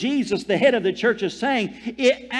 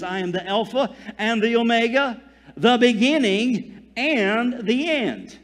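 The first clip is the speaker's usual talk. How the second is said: solemn voice of Jesus. Acted. Quoting Jesus' words solemnly.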